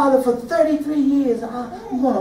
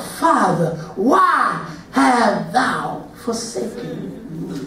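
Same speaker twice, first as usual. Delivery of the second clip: slow lament; 4 semitones lower, 4 dB quieter, slower than usual. Acted. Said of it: "He cried out".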